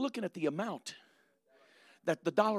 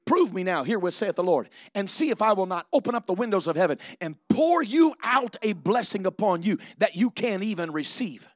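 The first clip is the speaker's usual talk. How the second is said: loud scripture; 3 semitones higher, 7 dB louder than usual. Acted. Preacher quotes scripture again.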